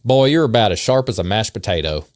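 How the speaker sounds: put-on light Southern accent for the insults; mild put-on Southern accent. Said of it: "read these in a Southern accent".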